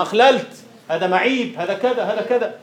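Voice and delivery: mock reproach. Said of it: "قلنا".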